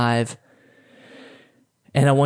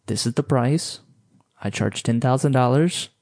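calm and slow. Shown as a demonstration. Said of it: "slow down and say".

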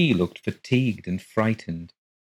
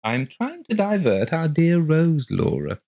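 husband; 9 semitones higher, 3 dB louder than usual. A narrator's reading. Husband voiced.

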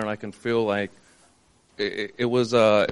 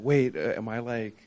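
quiet, uneasy retold inner voice; a hint of hushed worry, said mostly to himself; hushed fearful; 6 dB quieter than usual. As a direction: murmur it like a scared thought that just hit you. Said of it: "kind of, like, fearful in that".

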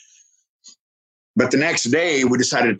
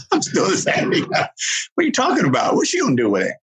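mock indignation; 8 semitones higher than usual. Mock indignation, pitch jumps.

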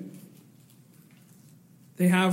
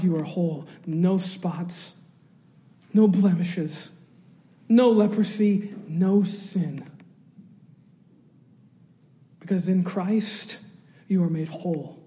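solemn. Acted. Closing pronouncement.

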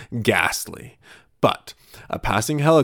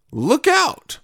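mock alarm. Mock interview intro shout.

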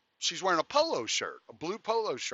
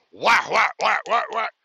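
loud, rhythmic whacks; imitated pounding; 5 semitones higher, 8 dB louder than usual. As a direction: punch out each bang like a fist on a door.

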